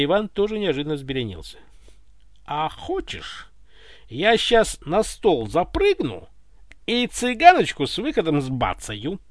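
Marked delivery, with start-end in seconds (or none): 2.5-9.2 slow, mock-menacing question; mock threatening. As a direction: threaten him playfully. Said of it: "Угрожающим тоном осведомился Иван".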